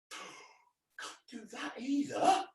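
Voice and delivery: gasp, then slow, hushed and high; mock horror. Entertainer feigns shock at colouring a sister's face. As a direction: pretend to be scandalised.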